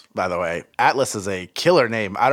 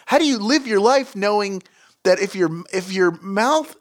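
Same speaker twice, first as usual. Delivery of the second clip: high, appalled questions; horrified disbelief; 8 semitones higher than usual. Real, not acted. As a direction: rant in disgust. Horrified rant.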